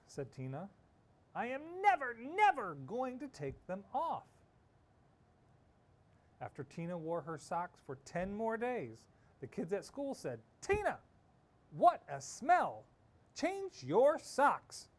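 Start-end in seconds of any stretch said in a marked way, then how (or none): 1.4-4.2 stubborn vow. Acted. Tina vows again. 10.6-14.9 high, loud, slow complaint; disgusted kids. Acted.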